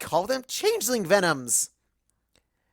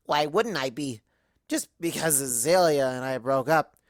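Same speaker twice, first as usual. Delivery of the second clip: put-on drunk Twilight; 4 semitones lower than usual. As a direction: slur through it, hurt and pretending not to care. Drunk Twilight rambling about breakup.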